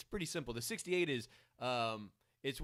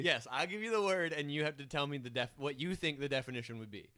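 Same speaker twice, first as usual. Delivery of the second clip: lisp. Real, not acted. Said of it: "He's got a lisp now".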